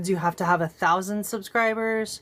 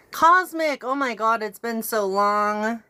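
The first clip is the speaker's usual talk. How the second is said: excited greeting; 3 semitones higher, slower than usual. Real, not acted. Greets a returning chat friend.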